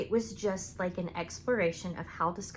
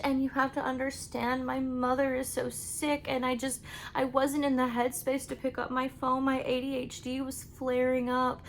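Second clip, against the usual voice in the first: higher, pleading sob-story whine; mock his self-pitying excuses; whiny excuse voice; 5 semitones higher than usual. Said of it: "sob story".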